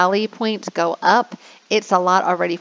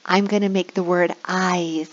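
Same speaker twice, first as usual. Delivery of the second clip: teacher voice. Shown as a demonstration. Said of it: "and I'll say".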